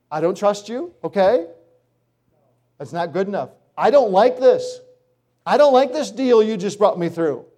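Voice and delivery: high, loud whining at God; whiny complainer. Pretend. Believer whining to God in a high loud complaining voice. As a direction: whine like a spoiled child refusing the deal.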